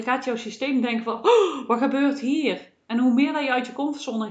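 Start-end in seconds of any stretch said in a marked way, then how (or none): 1.2-2.7 jolted little shout then slow wonder; startled with a laugh. Retold or imitated. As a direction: play the body's alarmed surprise, half laughing. System voiced, startled by change.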